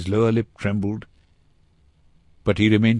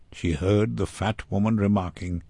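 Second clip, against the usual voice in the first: ordinary delivery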